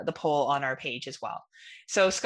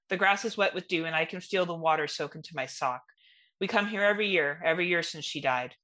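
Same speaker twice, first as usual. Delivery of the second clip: story narration. Acted. Reading her ghost story to the hosts, sombre storyteller voice. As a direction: read it like a grieving memory.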